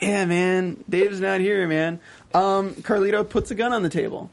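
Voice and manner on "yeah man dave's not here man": lightly voiced stoner comedy routine; mild mock stoner voice; Cheech and Chong. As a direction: do a hint of a stoner duo bit. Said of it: "You sound like Cheech and Chong".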